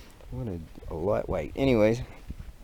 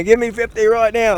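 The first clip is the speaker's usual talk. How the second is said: much higher, much louder barked order; drill sergeant yell; 13 semitones higher, 12 dB louder than usual. Pretend. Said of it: "Drill Sergeant".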